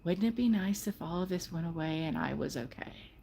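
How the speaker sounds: quiet, gentle wondering; soft mantra. Shown as a demonstration. To the listener, a soft hopeful mantra. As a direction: say it softly, letting the worry go. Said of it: "That's what you need to say".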